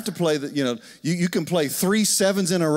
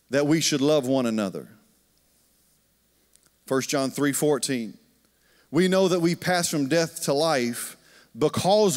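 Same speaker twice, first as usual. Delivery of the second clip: scripture reading. Acted. Reads scripture.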